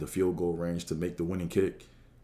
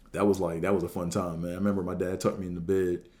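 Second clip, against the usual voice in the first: ordinary delivery, nothing marked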